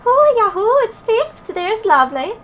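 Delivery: high, excited put-on character voice; thrilled, grateful fairy-tale character; delighted game character. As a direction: cheer the repair with a high, lilting whoop.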